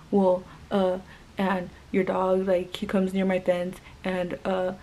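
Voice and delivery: mildly halting retold excuse; hesitant mock fumbling for words; imitated stuttering. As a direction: stumble lightly over fillers, imitating a flustered neighbor. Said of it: "he started stuttering".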